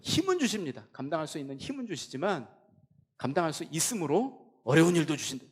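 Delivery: high, loud impassioned sermon; preaching at full force. Acted. Preacher urging the congregation to question God, impassioned and loud. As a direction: preach it with rising fervour.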